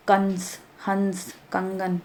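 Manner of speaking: कंस, हंस, कंगन drawn out slowly with the nasal ं sounded through the nose; nasal sound demo. Shown as a demonstration. Teacher showing pupils how anusvar sounds, slow nasal demo. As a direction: stretch कंस, हंस, कंगन so the nasal hum in each carries. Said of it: "नाक से आपकी आवाज़ आएगी".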